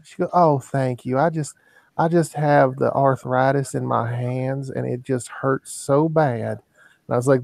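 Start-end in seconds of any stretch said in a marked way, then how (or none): 0.3-6.6 lightly voiced frail old woman; a hint of a grateful granny; sweet old lady. Old lady thanking the bag boy, lightly voiced sweetness. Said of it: "really sweet old lady that came up".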